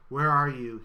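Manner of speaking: loud booming call. Acted. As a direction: call out across the garden to find him. Gov calls out to manufacturer.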